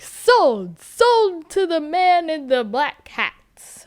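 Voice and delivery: dad calling out the sale; auctioneer dad. Retold or imitated. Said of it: "And the dad's like".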